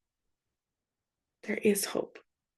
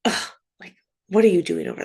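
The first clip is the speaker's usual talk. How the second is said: disgusted; much faster than usual. Retold or imitated. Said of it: "shame and disgust".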